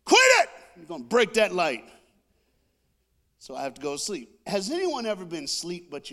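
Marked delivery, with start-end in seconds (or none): 0.0-0.5 high, explosive mock shout; dad yelling. Dad yells from his room about the light, shouting. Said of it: "my dad be yelling". 0.8-1.8 loud, scolding dad voice; dad yelling. Retold or imitated. Dad scolds his son for clicking the light, yelling. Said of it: "my dad be yelling".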